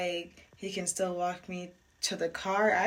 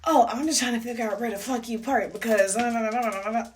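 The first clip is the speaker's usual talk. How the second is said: mock attitude; 3 semitones higher, 5 dB louder than usual. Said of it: "the same type of attitude".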